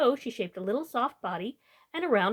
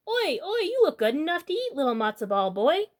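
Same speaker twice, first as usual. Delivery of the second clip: hungry tailor; 5 semitones higher, 3 dB louder than usual. Acted. Tailor hungrily addresses the boy.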